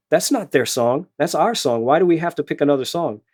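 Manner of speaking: mildly indignant student, voice slightly up; mock protest, a touch upset; retold upset student. Student objects to band director's new song choice, mildly upset. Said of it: "she got really upset with me".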